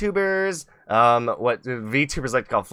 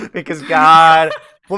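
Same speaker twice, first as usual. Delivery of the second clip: ordinary delivery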